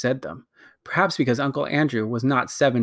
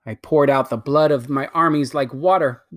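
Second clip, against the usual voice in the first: lightly voiced imperious queen, bitter at her sister; a hint of a haughty queen, scornful; proud wicked queen. Queen justifies destroying her world, haughty.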